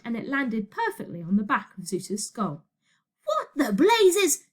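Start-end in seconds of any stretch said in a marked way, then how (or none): 3.2-4.4 slow, loud, high astonishment; indignant shout. A narrator's reading. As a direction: shout it in outrage, stretched out. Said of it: "shouted Zeus".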